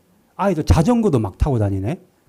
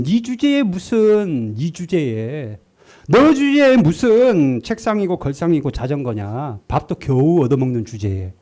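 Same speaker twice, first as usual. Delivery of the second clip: devil's taunting voice; slower than usual. Retold or imitated. Devil taunting the poor pastor in a slow sneer. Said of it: "마귀가 ... 어떤 마음을 뿌리냐면".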